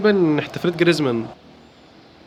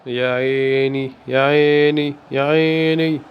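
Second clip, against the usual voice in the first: slow admiring sigh; much slower than usual. Real, not acted. Admiring a play.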